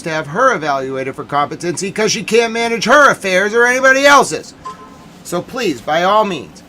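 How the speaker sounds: retelling the talk with the officer, anger building. Retold or imitated. Furious quote to the police officer.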